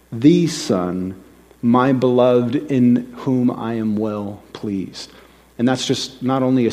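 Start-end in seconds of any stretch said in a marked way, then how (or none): 0.1-5.1 slow, weighty declaration with pauses; lightly voiced Father proclaiming his Son; divine pronouncement. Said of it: "to Jesus specifically, he says".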